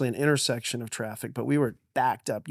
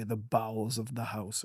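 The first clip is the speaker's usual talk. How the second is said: dad's grand phrasing; 2 semitones lower, 8 dB quieter than usual. Retold or imitated. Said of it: "he wouldn't even say basement".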